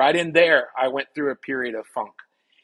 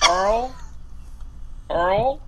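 Bella impression; 6 semitones higher than usual. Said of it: "you do a great impression".

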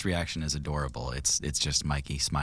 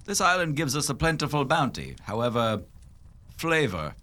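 solemn elder turtle; 7 semitones higher than usual. Acted.

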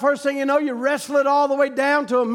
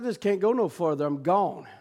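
worn-out giving up; 6 semitones lower, 5 dB quieter than usual. Retold or imitated. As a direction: lower and softer, drained of strength. Exhausted logger giving up.

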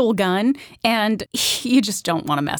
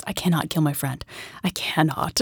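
dramatic; 4 semitones lower, 4 dB quieter than usual. Retold or imitated. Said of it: "such a dramatic thing that he says".

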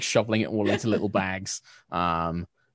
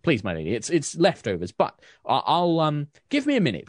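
higher, gossipy shopkeeper voice; chatty baker; 6 semitones higher than usual. Acted. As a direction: baker gossips to the Baroness about soldiers, higher. Susan insists, no charge.

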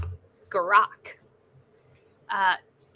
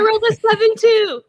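fast, loud call out; shouting; 7 semitones higher, 7 dB louder, much faster than usual. Real, not acted. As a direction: shout the roll excitedly. Shouting dice result.

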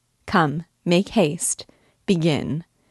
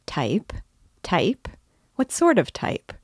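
laughing cry; 3 semitones higher, slower than usual. A narrator's reading. Girl amused that he calls himself a type, laughing. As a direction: cry out the question in mock-laughing surprise. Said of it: "cried the girl, laughing".

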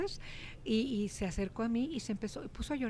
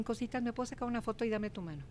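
nervous fan; 6 dB quieter, faster than usual. Retold or imitated. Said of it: "Y empiezan así".

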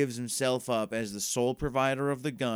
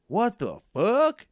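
high, loud, drawn-out shocked cry; 10 semitones higher, 7 dB louder, slower than usual. Retold or imitated. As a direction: stretch the outrage slow and high. Gemma shocked at the news.

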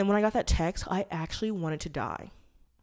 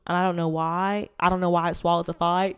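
louder sing-song mockery of mom's excuse; mocking mom's voice; 4 dB louder than usual. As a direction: mimic the mother's fake innocence, loud. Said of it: "That's really the energy".

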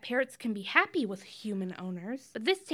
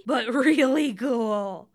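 laughing; 9 dB louder, much slower than usual. Real, not acted. Laughing at creepy parrot voices.

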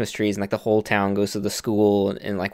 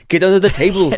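much higher and louder put-on voice; movie quote voice; 8 semitones higher, 7 dB louder, faster than usual. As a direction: shout the line like the film character. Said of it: "It's perfect".

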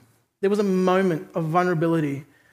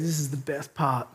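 retold deadpan line, a touch softer; 3 semitones lower, 5 dB quieter than usual. Stranger to his nervous guest on the couch, deadpan. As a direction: deliver it straight-faced and understated. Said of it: "with the straightest face".

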